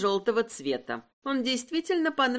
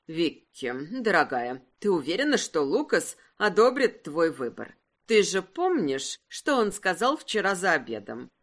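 put-on concerned older aunt; 4 semitones lower than usual. Aunt Cleo voiced, lower.

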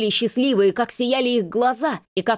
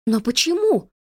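high tearful sob of a question; sobbing; 5 semitones higher than usual. A narrator's reading. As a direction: break into a sob. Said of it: "всхлипнула Арлина". (со всхлипом)

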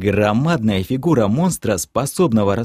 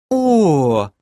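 high narrated moan; raised, drawn groan; 6 semitones higher, 4 dB louder than usual. A narrator's reading. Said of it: "простонала Кэлен".

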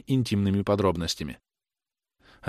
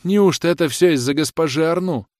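higher, louder cry through tears; tearful exclamation; 7 semitones higher, 4 dB louder than usual. A narrator's reading. Rosanette crying out to her lover, in tears. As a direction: burst out weeping. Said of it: "воскликнула Розанетта, заливаясь слезами".

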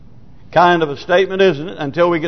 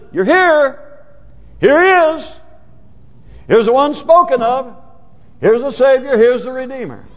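higher-pitched, emphatic proclamation; big sign announcing; 6 semitones higher than usual. Acted. Preacher voicing the sign at journey's end, higher-pitched proclamation. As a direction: announce it like a long-awaited arrival. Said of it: "it's a big sign says".

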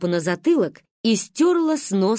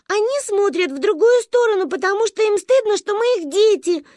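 put-on high, louder cheeky child; cheeky retort; 12 semitones higher, 4 dB louder than usual. A narrator's reading. Girl answers the scolding lady, high and cheeky. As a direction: snap back boldly. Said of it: "не растерялась Манька".

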